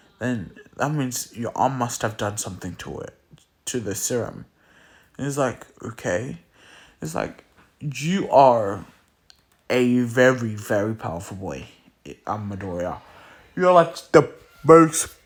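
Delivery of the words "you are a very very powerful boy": ordinary delivery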